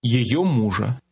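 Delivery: Её мужа said slowly, stress on Её; slow model phrase. Shown as a demonstration. Teacher slowly modelling Её мужа for the class. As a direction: draw out Её мужа for learners. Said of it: "Her husband's car".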